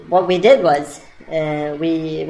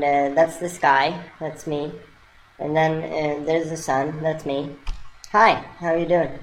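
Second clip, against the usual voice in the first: bright, friendly hello to a monkey; gentle, sing-song welcome; kindly greeting; 2 semitones higher than usual. Retold or imitated. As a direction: greet him sweetly, like a children's host. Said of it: "we said it in a kind way".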